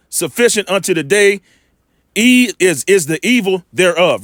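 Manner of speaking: slow, measured scripture reading. Acted. Preacher rereading the verse to make his point, measured reading. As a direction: read it slowly with weight on each phrase.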